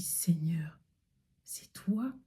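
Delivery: murmure étonné, à peine audible; chuchoté. Retold or imitated. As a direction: souffle la question, surprise. Réveillée, elle répond à Dieu. (chuchotement étonné au réveil)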